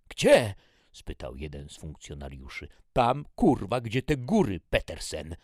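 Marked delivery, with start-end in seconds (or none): 0.1-0.5 high, very loud, puzzled; shouted question. Acted. Soldier calls out a question. 2.9-5.4 loud, high, exasperated; roaring. A narrator's reading. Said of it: "ryknął major".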